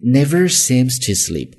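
NEVER high and drawn out, then falling; stress on NEVER. Shown as a demonstration. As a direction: lift and stretch never, slowly. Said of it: "音调高一些".

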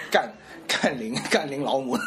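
mock Taiwanese. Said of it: "台语啊".

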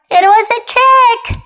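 high, loud gleeful reveal; lightly acted amusement; laughing. A narrator's reading. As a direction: crow it like a child who fooled Dad. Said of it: "laughed Kipper".

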